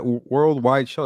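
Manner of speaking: very slowly drawn-out words; stretched slow. Pretend. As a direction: stretch every syllable for effect. Repeats it even more stretched.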